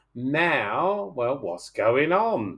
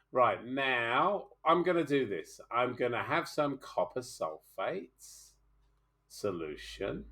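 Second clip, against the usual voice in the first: careful unhurried voice; 5 dB quieter, slower than usual. Real, not acted. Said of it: "I'm gonna start nice and slow".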